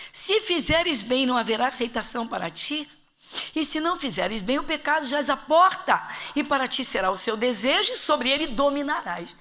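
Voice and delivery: scripture read with rising force; preaching God's warning. Acted. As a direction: proclaim it as a warning to the congregation.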